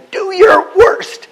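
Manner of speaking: loud, high, slow furious yell; angry shout. Retold or imitated. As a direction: roar it down the phone at the other side. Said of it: "until finally he just shouted".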